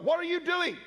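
high startled what are you doing; mock-shocked recognition of a former student; surprised. Principal spotting a graduate waiting tables, surprised. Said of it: "I thought".

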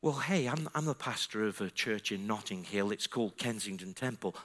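low, soft, modest pastoral voice; gentle invitation. Retold or imitated. Pastor to girls about his church, softly inviting.

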